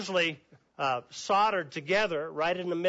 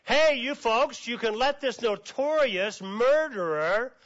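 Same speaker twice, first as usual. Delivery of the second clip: raised, higher call to the crowd; Pilate yelling out; 5 semitones higher than usual. Acted. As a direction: shout the offer across the square. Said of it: "Pilate yells out".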